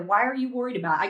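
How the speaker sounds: quick, imitated confrontational question; imitated challenge. Woman challenging the poll watcher, imitated quick challenge. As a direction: rattle it off as the retold challenger. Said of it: "She goes".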